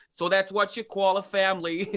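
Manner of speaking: hammed-up New York accent; bad New York accent. Singer mocking their own school Newsies role, bad New York accent. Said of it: "the worst New York accent".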